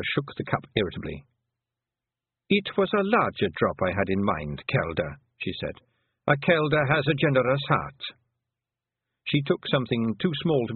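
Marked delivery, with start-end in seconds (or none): 2.5-8.0 put-on an old clan mother talking fondly of her lads; old Pictsie mother. Old Kelder tells Tiffany about her many sons, higher Scots burr.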